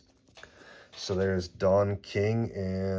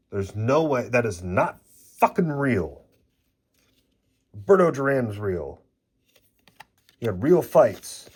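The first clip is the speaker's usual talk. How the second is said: worked-up rant; 2 semitones higher, 3 dB louder than usual. Real, not acted. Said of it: "I'm still fucking worked up".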